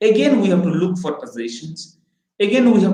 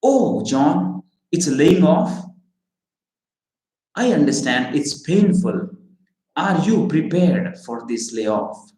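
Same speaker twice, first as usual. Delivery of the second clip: caring. Shown as a demonstration. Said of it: "show your genuine care ... what would you say?".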